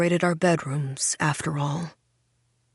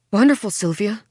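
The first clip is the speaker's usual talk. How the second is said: lying politely; 3 semitones higher, 4 dB louder than usual. Acted. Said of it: "I lie".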